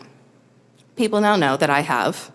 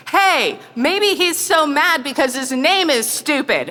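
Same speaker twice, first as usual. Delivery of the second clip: higher, light teasing husband; husband's quip; 7 semitones higher than usual. Retold or imitated. Husband over the screaming peacock, teasing quip. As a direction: toss off a goofy idea.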